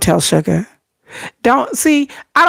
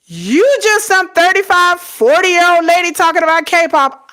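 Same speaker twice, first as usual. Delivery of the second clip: mocking the commenter; 8 semitones higher than usual. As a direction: sneer it like a rude troll in chat. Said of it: "He said".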